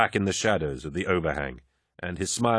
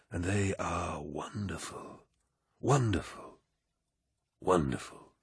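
commanding warrior lord. Acted. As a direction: speak like a genial, mighty lord. Narrator voices Horus.

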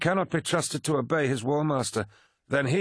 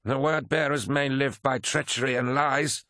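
high, angry snarl; 7 semitones higher than usual. A narrator's reading. Abaddon turns on Erebus, snarling. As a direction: snarl the accusation. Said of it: "snarled Abaddon".

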